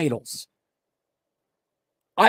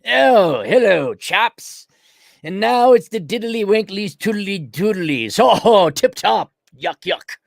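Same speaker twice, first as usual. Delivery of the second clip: mock British toff; slower than usual. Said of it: "do some kind of British flag thing".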